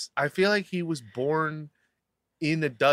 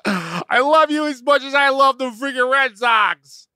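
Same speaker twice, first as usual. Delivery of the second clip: hammed-up confession, rising higher and louder to the end; mock love confession; 5 semitones higher, 4 dB louder than usual. Smitten crewmate confesses to the boat's best person, mock-impassioned. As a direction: start earnest, build to a high, loud wail.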